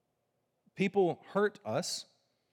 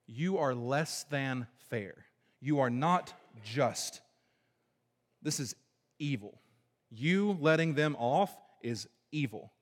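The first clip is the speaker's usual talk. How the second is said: accusing God; slower than usual. Retold or imitated. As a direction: lay the charge slowly and heavily. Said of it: "that's the tone here".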